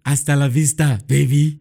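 put-on loud Austrian-accented movie catchphrase; a hint of Austrian action-hero swagger; Arnold Schwarzenegger impression. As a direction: belt it like the Terminator in an Austrian accent. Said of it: "That's Arnold Schwarzenegger".

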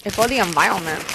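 mock Vietnamese accent that sounds deaf; botched Vietnamese accent. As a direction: imitate a Vietnamese accent badly, slurring consonants. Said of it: "You made him sound deaf and Vietnamese".

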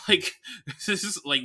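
ordinary talk, nothing marked

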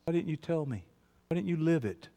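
sudden drop to very soft voice; quietly plead, drained after the outburst; hushed reproach. Acted. Child asking father why he didn't tell, hushed reproach.

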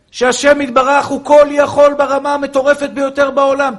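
loud, high fervent preacher's cry; impassioned sermon shout; preaching at full force. Acted. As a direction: rouse the crowd at the top of your voice.

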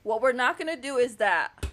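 emphatic pretend ruling from the bench; mock TV judge. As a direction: lay down the law with playful authority. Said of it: "I'm Judge Judy".

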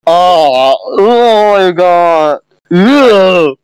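high slow disgusted oh my god; disgusted shriek. Real, not acted. Disgusted at faces.

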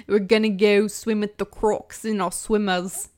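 put-on Aussie accent, easy going; Australian accent. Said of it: "You sound very New Zealand right now".

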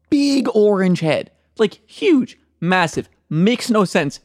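high, slow, amazed description; flat setup lively punchline. Acted. Joke build-up, excited description.

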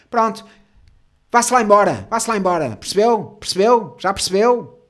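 loud, high mock dismissal; angry clerk. Clerk sending a client away, angry and loud. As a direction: shoo them off with loud, insistent questions. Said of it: "E ela".

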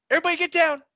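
high, loud shouted order; imitating a drill sergeant screaming; drill sergeant yell. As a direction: yell it at the sleepy kid.

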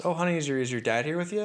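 a hint of a sweet cafeteria lady; kindly lunch lady. Lunch lady asking a child about his dad, kindly.

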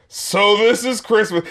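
a slow, bored little mock of the lyric; lightly mocking the singer's boredom; not impressed. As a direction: say it like Christmas underwhelms you. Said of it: "he's just not impressed by Christmas".

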